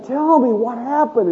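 lightly acted soothing parent; gentle father. Dad after calming his crying daughter, gently coaxing.

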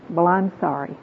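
understated, perfunctory sorry; unfeeling apology. Shown as a demonstration. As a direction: apologize without real feeling. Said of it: "it lacks that, uh, feeling".

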